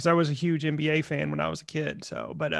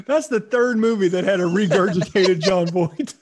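slow, louder mock line; deadpan mock quoting, slowed and louder; mock quote; 5 dB louder than usual. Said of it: "I thought he was gonna say".

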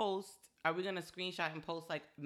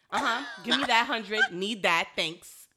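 mock robber demands; 3 semitones higher, 12 dB louder, slower than usual.

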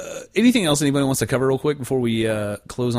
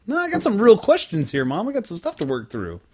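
mock insistent teen; 10 semitones higher than usual. Voicing himself to mom.

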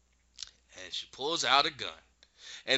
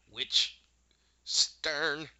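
dramatic whispered name; 4 semitones higher than usual. Retold or imitated. Witch announces her name.

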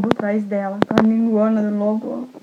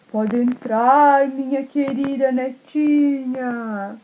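slow, drawn-out sugary lure; wolf posing as grandma; 3 semitones higher, much slower than usual. Acted. Wolf in disguise inviting the girl inside, slow and sugary. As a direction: stretch every word to lure her in. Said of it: "Aí o lobo falou assim".

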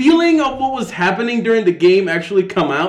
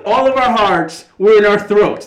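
higher and louder, slow and emphatic; excited; 6 semitones higher, 5 dB louder than usual. Real, not acted. Fan to friends about the game, excited and loud. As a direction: swept up in reliving the game.

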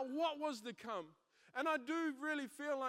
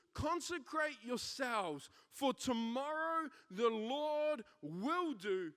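slow scripture reading; slower than usual. Acted. Reading Joshua's words slowly.

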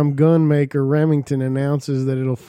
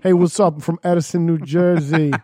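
put-on New Jersey greeting; New Jersey accent. Podcaster introducing a guy from Edison, New Jersey accent. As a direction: play a Jersey local saying hello. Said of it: "doing your New Jersey accent".

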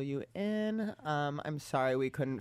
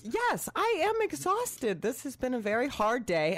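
mock exhausted; 9 semitones higher than usual. Plays up being busy.

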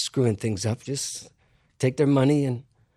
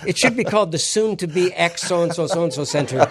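higher, laughing through a mock new name; laughing mock renaming; 5 semitones higher, 3 dB louder than usual. Real, not acted. Lecturer mocking rich donors' vanity, laughing and higher. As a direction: tease the donors while laughing.

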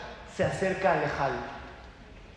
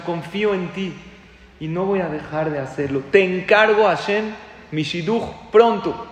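retold tearful prayer; 2 semitones higher, 5 dB louder than usual. Young man entrusting his match to God, retold fervent plea. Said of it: "Y así con lágrimas en los ojos".

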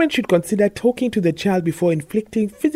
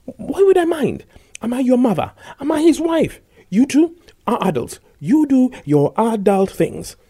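angry; 2 semitones higher, 3 dB louder than usual. Acted. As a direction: voice quaking with mild anger. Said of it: "her voice quaked with anger".

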